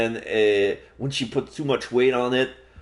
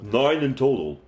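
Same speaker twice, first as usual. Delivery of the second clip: benign ghost. Acted. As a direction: speak as a calm, distant spirit. Ghost speaks.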